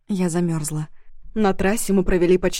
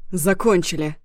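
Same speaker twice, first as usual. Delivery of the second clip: shouting over machinery. A narrator's reading. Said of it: "Перекрикивая рёв двигателей".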